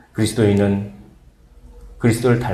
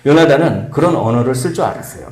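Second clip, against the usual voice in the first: normal talking voice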